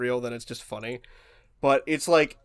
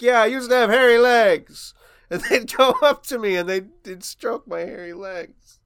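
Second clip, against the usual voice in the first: put-on rambling old politician, raised and breaking into amusement; mock a rambling anecdote, slowing at the end; Biden; 5 semitones higher, 4 dB louder than usual. Retelling the hairy legs gaffe, mock Biden voice. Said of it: "Or how he's like".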